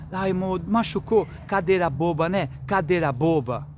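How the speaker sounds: put-on baby the child like an overprotective mother; mãe mimando. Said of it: "fala assim". (mãe mimando o filho, voz mais aguda e alta)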